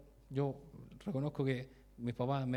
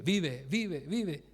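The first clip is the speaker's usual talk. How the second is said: urgent repeated plea, voice lifting on each word; retold desperate plea; 2 semitones higher, much slower than usual. Owner begging his choking cat to live, retold plea. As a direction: re-enact pleading for a life. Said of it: "empecé a decirle".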